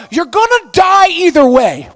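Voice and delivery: "you're gonna die either way" shouted high and loud; loud repeat. Shown as a demonstration. Preacher shouting the point to the congregation, loud. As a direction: hammer home "gonna die". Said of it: "Hey, guys".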